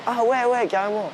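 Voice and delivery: mock girl's eager carrément; impressed girl. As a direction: imitate her lighting up in agreement. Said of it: "elles ont une réaction".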